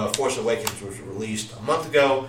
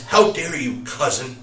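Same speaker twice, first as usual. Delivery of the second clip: imitating Kylo Ren; 3 semitones higher, 4 dB louder than usual. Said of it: "when you hear it, it's like".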